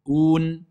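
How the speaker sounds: held Un as "ouun", closed on N; correct stop. Shown as a demonstration. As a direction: sustain Un, ending cleanly on N without a vowel.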